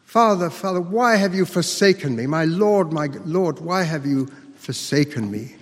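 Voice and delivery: retold cry from the cross. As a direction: call out in appeal, starting high and easing down. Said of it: "he cried out".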